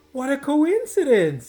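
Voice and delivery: amazed teacher reacting to a pupil's news; delighted exclamation. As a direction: exclaim it, thrilled by the match.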